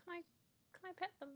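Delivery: high-pitched, excited pleading; high, eager little request. Acted. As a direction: ask eagerly to pet the animal. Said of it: "very excited about that".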